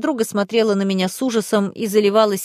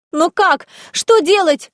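high, loud panicked questions; высокий испуганный крик; 9 semitones higher, 5 dB louder, slower than usual. Acted. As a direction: cry out helplessly. Friend panics, doesn't know how.

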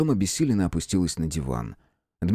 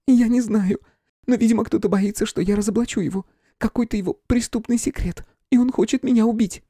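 high, fearful voice; frightened medium. A narrator's reading. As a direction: voice the fear of being killed. Flora frightened.

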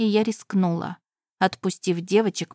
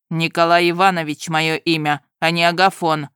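groom exclaiming; 5 dB louder than usual. Acted. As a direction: marvel at the clever horse. Groom corrects name.

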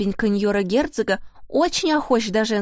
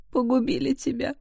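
the first «Погубили» held back, a hushed high wail; grieving lament; 5 semitones higher than usual. A narrator's reading. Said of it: "причитала она".

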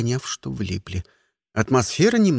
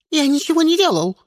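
high, loud panicked wail; frightened egg wailing its innocence; 13 semitones higher, 5 dB louder, faster than usual. Acted. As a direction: wail it out in terror. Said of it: "заголосило яйцо".

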